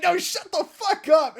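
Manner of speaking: high, loud mock outburst; Pearl, mock angry. Imitating a rapper silencing rival, mock angry. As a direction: shout them down in play.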